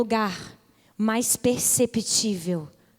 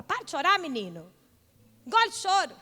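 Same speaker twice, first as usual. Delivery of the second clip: stern scolding; 4 semitones higher than usual. Retold or imitated. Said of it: "Minha mãe falava assim".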